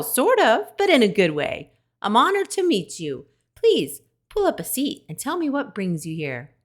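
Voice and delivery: high, eager little animal voice, a touch flustered; nervous friendly skunk. A narrator's reading. Skunk telling the robot she is nervous, high and flustered. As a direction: skunk gushing shyly to her hero.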